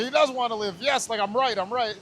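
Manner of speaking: triumphant relief; happy. Retold or imitated. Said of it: "I'm so fucking happy".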